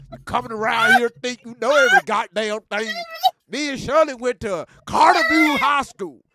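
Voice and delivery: lightly voiced old Southern redneck; a hint of a rowdy country good ol' boy; the speaker's redneck voice. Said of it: "how do you sound just like him".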